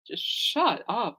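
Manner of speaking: slow, drawn-out dismissive sigh of a line; fed up. Retold or imitated. Fan telling arguing fans to stop, slow and weary.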